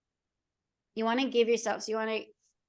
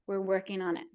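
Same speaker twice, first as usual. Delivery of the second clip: soothing; 3 semitones lower, 4 dB quieter than usual. Acted. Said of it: "they just need some soothing".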